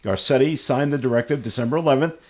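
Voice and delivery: reading a news item aloud. Real, not acted. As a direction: read it out like a radio news story.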